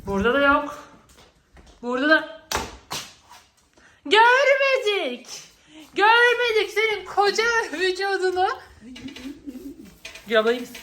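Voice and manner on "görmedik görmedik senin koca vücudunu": drawn-out mocking call; teasing seeker. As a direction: stretch it out to taunt them. Seeker teasing the hidden one.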